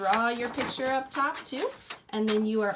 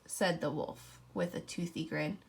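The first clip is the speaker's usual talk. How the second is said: put-on reading a picture book to children; story narration. A narrator's reading. Teacher reading aloud to her class, story voice.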